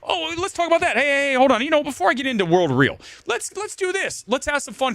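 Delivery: high-pitched parody of the people he mocks, fast at first; mocking left-wingers. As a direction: lampoon them in a high, prissy put-on voice. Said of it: "All the left-wingers".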